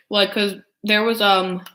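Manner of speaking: chewing while talking; mouth full. Real, not acted. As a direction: talk through a mouthful. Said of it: "me eating is kinda gross".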